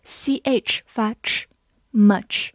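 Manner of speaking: each sound said slowly. Shown as a demonstration. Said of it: "字母U发短音啊".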